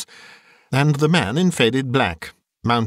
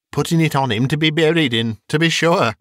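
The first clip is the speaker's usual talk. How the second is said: with a laugh; 5 semitones higher than usual. Acted. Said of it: "with a laugh".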